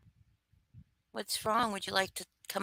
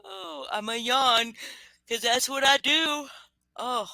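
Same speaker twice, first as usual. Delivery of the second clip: silly voice; 6 semitones higher than usual. Pretend. Silly voice about yawning.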